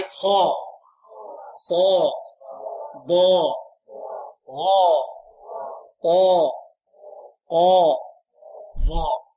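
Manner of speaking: each heavy letter long and full, alone; emphatic heavy letters. Shown as a demonstration. Teacher has students repeat the heavy letters, drawn out and emphatic. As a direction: draw out every emphatic letter with a full mouth. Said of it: "انطقوا معي".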